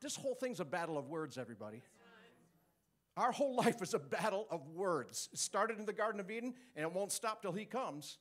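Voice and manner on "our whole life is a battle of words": preaching emphasis. Real, not acted.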